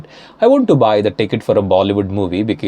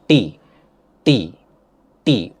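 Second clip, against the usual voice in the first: Indian "T", tongue pushed hard against the teeth; Indian T sound; slower than usual. Shown as a demonstration. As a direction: give "T" the Indian retroflex push. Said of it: "when you say in India, it changes".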